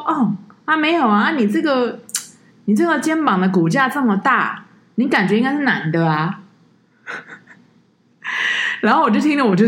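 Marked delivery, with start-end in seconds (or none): 0.1-6.4 higher, earnest imitation of the uncle; mock earnest tourist. Tourist explaining the broad shoulders to the guide, earnest and higher. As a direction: explain it innocently as if it's obvious.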